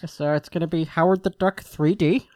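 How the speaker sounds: half-baked impression of a halting filmmaker; hesitant filmmaker announcing a project; lightly voiced director, full of uhs; George Lucas. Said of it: "bust out my George Lucas half-baked impression".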